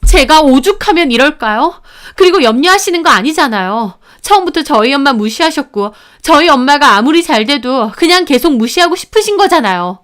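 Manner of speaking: high, upset protest, lightly acted tears; tearful confrontation. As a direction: argue back as if near crying. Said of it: "저 울면서 따졌고".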